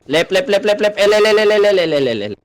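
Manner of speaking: excited shouted directions; urgent callouts. Real, not acted. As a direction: bark directions at the team mid-battle. Calling directions in a battle.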